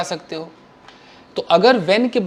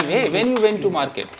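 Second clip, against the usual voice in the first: slow, drawn-out wrong sentence; wrong version, slow; 3 dB quieter, much slower than usual. Shown as a demonstration. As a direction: spell out "when you went to market" slowly as the mistake. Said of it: "This is wrong".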